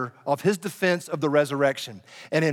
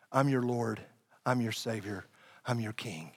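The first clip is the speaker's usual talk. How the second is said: gentle Jesus; 4 semitones lower, 5 dB quieter than usual. Pretend. Imagined Jesus speaks to James.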